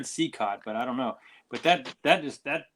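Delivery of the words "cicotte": Sicott said as SEE-cot; alternative pronunciation. Shown as a demonstration. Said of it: "I've always heard".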